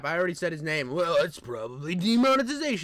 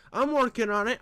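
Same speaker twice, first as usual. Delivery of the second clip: Trump impression; 4 semitones higher than usual. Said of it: "I wanna do the voice just right".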